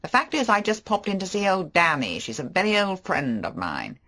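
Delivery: a flashy charmer making excuses; Favell. Acted. Favell voiced.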